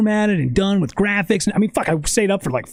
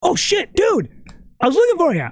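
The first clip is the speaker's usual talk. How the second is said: excited greeting; 10 semitones higher than usual. Retold or imitated. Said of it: "Chris sees me and goes".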